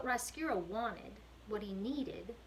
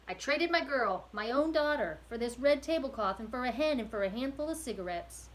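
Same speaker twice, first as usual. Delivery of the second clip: higher, louder pained confession; anguished prisoner; 4 semitones higher, 6 dB louder than usual. Acted. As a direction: blurt out the shameful truth, voice raised. Prisoner confesses selling daughter.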